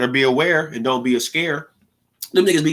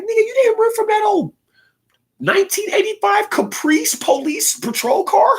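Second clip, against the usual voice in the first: incredulous high voice. Retold or imitated. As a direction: squeak it out in disbelief. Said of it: "I be sitting there like".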